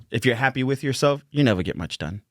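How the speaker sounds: light Boston accent; a hint of Boston in the vowels; saying delivered with a slight Boston accent. Real, not acted. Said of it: "did it in a Boston accent".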